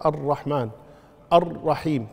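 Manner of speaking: both words deliberate, each with a geminated ra; doubled ra. Shown as a demonstration. Teacher counting shaddas, doubled ra in الرحمن and الرحيم. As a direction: hold the rolled "rr" in الرحمن and الرحيم. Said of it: "مشددة".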